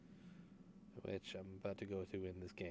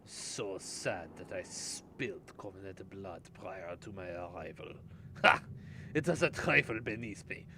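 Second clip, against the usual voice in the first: put-on German accent; 6 dB louder than usual. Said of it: "try to speak this in a German accent".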